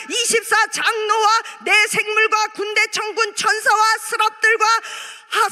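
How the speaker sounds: ordinary talk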